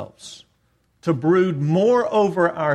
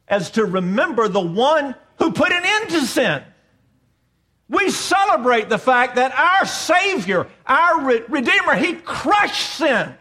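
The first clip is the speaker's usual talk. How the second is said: higher, emphatic proclamation; impassioned preaching; 6 semitones higher than usual. Real, not acted. Preacher celebrating that sin is broken, impassioned preaching. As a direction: preach it with rising conviction.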